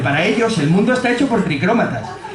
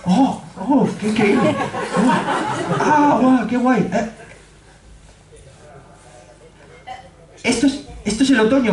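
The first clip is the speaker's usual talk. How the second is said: higher, breathless wonder with laughter; awed friend; 5 semitones higher than usual. Retold or imitated. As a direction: gasp at every colour. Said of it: "me pregunta". (asombro entre risas)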